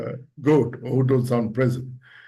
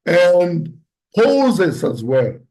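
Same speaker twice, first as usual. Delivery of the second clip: slow with pauses; 4 dB louder, much slower than usual. Shown as a demonstration. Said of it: "you need to slow".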